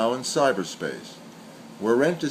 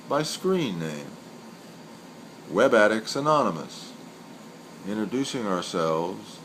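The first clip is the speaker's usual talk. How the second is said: poem recital. Acted. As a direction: let each line of the poem hang before the next. Recites senryu twice.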